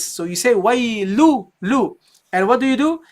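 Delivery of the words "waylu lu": "waylu" ending open on oo, no n; noon dropped. Shown as a demonstration. Teacher drops the tanween, open vowel ending. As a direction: leave "waylu" open, cut off the final n. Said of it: "But now you drop this".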